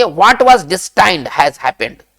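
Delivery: each English word spaced out very slowly; slow dictation. Shown as a demonstration. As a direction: spell it out slowly for the class to repeat. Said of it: "इस बात को हम कैसे कहेंगे".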